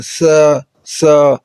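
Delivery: سا said soft, no hiss; teacher modelling a soft letter; soft tha. Shown as a demonstration. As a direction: soften سا. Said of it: "یہ نرم ہے".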